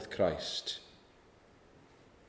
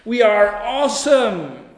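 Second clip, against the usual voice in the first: louder, higher smug voice parodying society; mocking smug society; 7 semitones higher, 7 dB louder, slower than usual. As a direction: puff it up with mock pride. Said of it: "People say".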